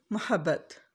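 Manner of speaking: मोहब्बत with zabar on meem, ma-habbat; मोहब्बत with open first vowel, not mu; correct mohabbat. Shown as a demonstration. Teacher modelling correct मोहब्बत for viewers. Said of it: "मीम के ऊपर ज़बर आती है".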